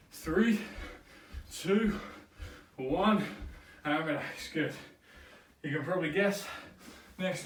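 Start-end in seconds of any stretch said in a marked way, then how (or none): 0.1-3.2 countdown call. Real, not acted. Coach calls the countdown.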